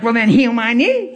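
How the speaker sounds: imitated snippy challenge, lifting on "knee"; retold jab full of attitude; mean, sarcastic. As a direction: play a feisty lady throwing down a dare. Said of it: "she's being mean".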